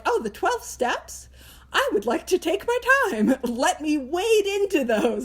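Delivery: mock reluctance. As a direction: play a precious newcomer stalling politely. Acting a hesitant newcomer to steps.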